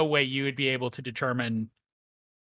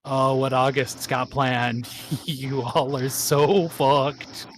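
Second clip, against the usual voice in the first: slow, gloating cackle through the words; drawn-out villain taunt broken by laughter; laughing taunt; much slower than usual. Acted. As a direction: laugh mockingly as you stretch the threat out. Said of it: "laughs and his tongue kinda lolls".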